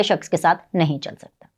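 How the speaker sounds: pointed whisper; whispered dig at the party's followers. Real, not acted. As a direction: hiss the jab under the breath. Pointed jab at sensible people.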